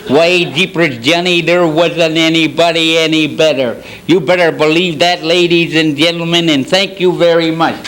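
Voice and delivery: lightly voiced old cowboy sidekick; a hint of western old-timer impression; Gabby Hayes. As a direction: play a mild cowboy character. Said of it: "the Gabby Hayes".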